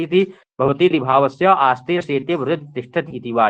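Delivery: steady measured reading of Sanskrit text; text recitation. Acted. Teacher reciting the Nirukta passage to students, measured reading. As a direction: recite the verse evenly, like scripture.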